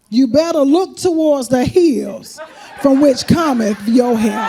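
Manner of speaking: slow preachy scripture read. Retold or imitated. Scripture note read out slowly.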